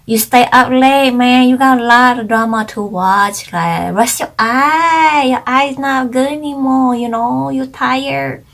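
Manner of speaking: put-on playful Chinese-accented lecture about rest; mock Chinese accent. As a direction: tease him in his Chinese accent, scolding you for staying up. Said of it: "making fun in my Chinese accent about Ajashi".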